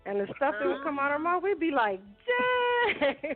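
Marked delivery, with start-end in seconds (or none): 2.3-3.3 high-pitched mock astonishment; retold shocked "whoa" reaction; amazed reaction. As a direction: exclaim it stunned, voice shooting up. Family's reaction to child's words.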